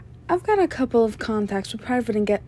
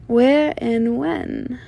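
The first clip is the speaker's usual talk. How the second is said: slow, drawn-out question; slow, dangling tease; teasing; much slower than usual. Acted. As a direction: stretch each word to tantalize. Teasing with withheld tip information.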